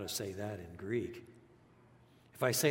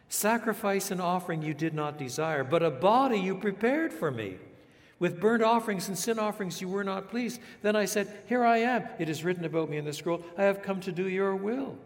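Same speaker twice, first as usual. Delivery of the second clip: quoting psalm louder and higher, rising to a proclamation; Christ's words ringing out, higher and louder; Christ speaking psalm; 7 semitones higher, 5 dB louder than usual. Retold or imitated. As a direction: declare it as Christ, building to the cry here I am. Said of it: "he said".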